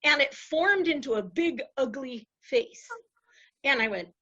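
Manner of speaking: ordinary talk, nothing marked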